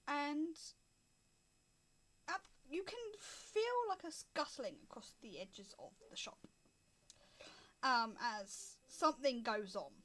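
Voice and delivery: slow, paused game master narration; scene setting. Acted. Game master reveals tiny kilted men to players, scene setting. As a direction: unfold the scene slowly with suspenseful pauses.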